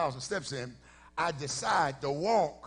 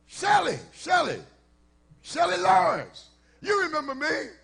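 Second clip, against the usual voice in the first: higher, louder eager woman's voice; high-pitched woman; 9 semitones higher, 6 dB louder than usual. Retold or imitated. Old acquaintance naming herself to the pastor, high-pitched and eager. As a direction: insist she be remembered, high and eager. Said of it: "this high-pitched voice".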